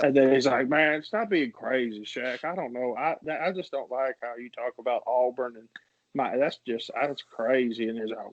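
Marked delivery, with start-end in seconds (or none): 0.7-7.9 lightly imitated exasperated debater; light celebrity impression, trailing off; Charles Barkley. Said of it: "arguments between Charles and Shaq, like, in his impressions".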